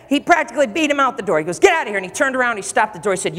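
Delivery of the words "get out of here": high mock yell; acted angry dismissal. Realtor beating the buyer out the door, mock angry dismissal. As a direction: imitate a realtor chasing someone out.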